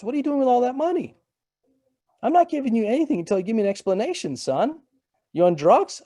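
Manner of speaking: a father who has had enough of the money calls; exasperated dad. Retold or imitated. Dad exasperated by repeated money requests.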